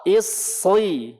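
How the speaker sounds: "Isri" with a heavy s before a long i; thickened s in "Isri", for students to copy; thick emphatic sad. Shown as a demonstration. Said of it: "Tebal suaranya".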